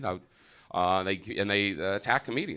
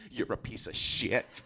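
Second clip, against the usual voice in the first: slow, restrained contempt; acted anger held at talking volume; retold insult; slower than usual. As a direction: say it slowly, right in someone's face. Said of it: "She gets right in my face".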